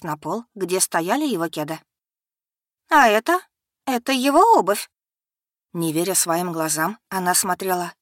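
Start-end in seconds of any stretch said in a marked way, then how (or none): 2.9-4.9 sharp, high, loud disbelief; потрясённо и громко; shocked accusation. Acted. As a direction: point at the shoes in shock. Becky finds his shoes.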